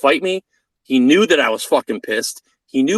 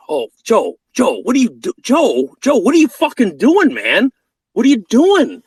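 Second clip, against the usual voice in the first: mocking call-out; 8 semitones higher than usual. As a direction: jeer at him across the field, pitched way up. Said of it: "calling him out".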